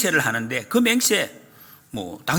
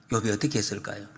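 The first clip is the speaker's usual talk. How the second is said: normal talking voice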